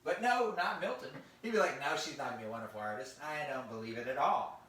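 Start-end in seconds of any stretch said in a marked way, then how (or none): 1.8-4.6 low nasal put-down; sneery nasal naysayer; nasally voice. Acted. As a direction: play the belittling brother, nasal and low. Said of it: "if he had a nasally sound".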